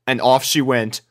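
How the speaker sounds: ordinary delivery, nothing marked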